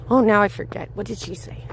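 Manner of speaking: normal talking voice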